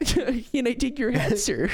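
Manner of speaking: high, slow fancy waiter; overly polite, laughing through it; posh bartender voice. Pretend.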